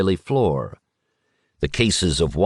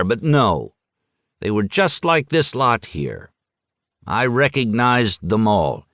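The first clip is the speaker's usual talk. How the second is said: lightly voiced boastful old man; a hint of a tipsy raconteur; Kellerman resuming his tale; 3 semitones higher than usual.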